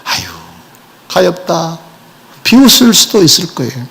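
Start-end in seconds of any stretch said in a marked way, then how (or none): 0.0-1.8 soft, lowered scoff of mock pity; mock pitying sneer. Mocking Jesus as a pitiful brother, soft scoffing sigh. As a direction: sigh it out like looking down on him. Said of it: "자칫 잘못하면 비웃을 수 있겠지".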